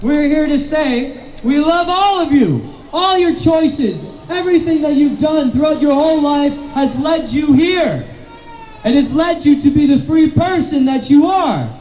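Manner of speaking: impassioned preacher's speech to a crowd; rousing sermon-like address; rally preaching. Acted. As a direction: preach it to the rain-soaked crowd.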